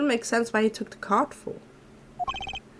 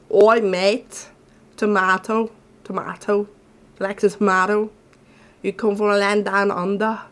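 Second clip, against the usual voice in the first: imitating an Aussie; 4 dB louder than usual. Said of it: "thanks to my cousin".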